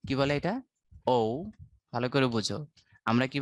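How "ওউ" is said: ও said as a gliding "oh-oo"; British diphthong on ও. Shown as a demonstration. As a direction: model the British ও with a glide to "oo". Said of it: "ব্রিটিশরা বলে হচ্ছে".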